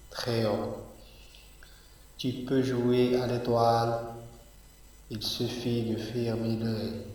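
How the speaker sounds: slow, measured poem reading with pauses between lines; poem read aloud line by line, evenly paced; poetry recitation. Acted.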